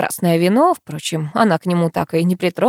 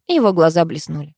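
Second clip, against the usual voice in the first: plain reading voice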